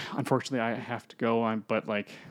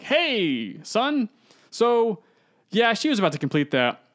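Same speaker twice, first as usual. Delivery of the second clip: high, louder, easy greeting; smooth demon father; 9 semitones higher, 4 dB louder than usual. Retold or imitated. Demon father greeting his son, smooth and casual.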